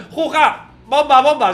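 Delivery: loud high "Juja, bomba, bomba" chant; a dance-music singer. Retold or imitated. Mimicking a dance-music singer in the MRI tube, loud high chant. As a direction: shout it like a rave anthem. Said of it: "hacías como un cantante".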